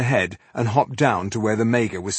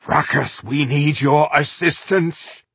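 calling out; 5 semitones higher, 4 dB louder than usual. Acted. Calling for help in battle.

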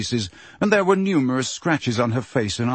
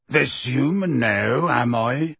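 slow, irritated rumble; testy; slower than usual. Acted. Hagrid bristles at the centaur, testy and slow. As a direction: bristle at being called human. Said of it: "said Hagrid testily".

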